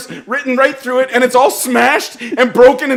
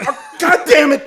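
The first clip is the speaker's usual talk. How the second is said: exasperated; 6 semitones higher than usual. Retold or imitated. Son despairs at dad.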